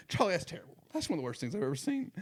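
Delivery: high, fast mock broadcaster; imitating the announcer. Quoting the radio reporter again, high and fast. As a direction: rattle it off like the old reporter. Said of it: "He just goes".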